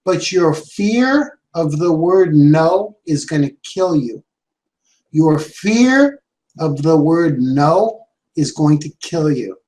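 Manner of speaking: low, slow, grave mentor voice; slow solemn warning. Retold or imitated. Mentor solemnly warning the young salesman. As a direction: warn him gravely, slowly. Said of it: "He goes".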